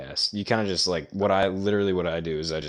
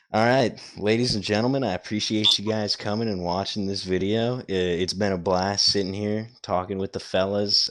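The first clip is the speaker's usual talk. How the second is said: announcer voice. Pretend. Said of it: "announcer voice".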